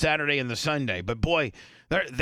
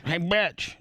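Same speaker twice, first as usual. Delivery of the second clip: playfully insulting hello, slightly raised; mock-rude greeting; 3 semitones higher than usual. Host showing how they greet the guest's sister, playfully rude. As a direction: greet a sibling with a friendly insult. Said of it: "That's how I talk to her".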